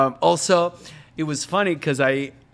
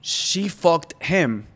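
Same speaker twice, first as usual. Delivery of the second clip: slow retold slip; much slower than usual. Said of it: "Entonces dice".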